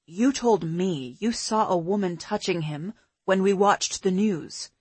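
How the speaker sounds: man's voice. Acted. Pete's dialogue, lower voice.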